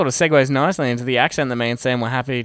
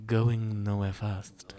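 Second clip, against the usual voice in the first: slow, low mock-French demo; dubious French accent; 4 semitones lower, 9 dB quieter, much slower than usual. Shown as a demonstration. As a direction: demonstrate a poor French accent, very slowly. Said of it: "that is not French".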